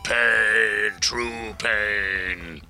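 a touch of gleeful orc savoring the pain; lightly voiced orcs who enjoy getting hurt; half-orcs relishing pain. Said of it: "the half-orcs are just like".

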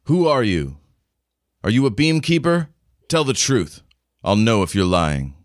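attempted Scottish accent, lightly put on. Game master as Merida questioning a newcomer, attempted Scottish accent. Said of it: "supposed to be in a Scottish accent".

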